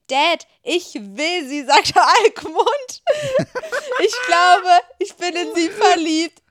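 a confession broken up by laughter, loud and high; the son confesses his love while the narrator laughs; laughing. Acted. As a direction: try to confess but keep cracking up.

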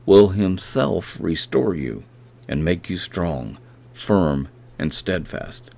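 a measured, reverent reading of the verse; scripture reading. Acted. Preacher reading Hebrews to podcast listeners, reverent. Reads scripture, then redoes it.

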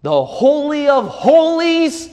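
high, loud preacher's cry; fervent pulpit shout; preaching at full force. Acted.

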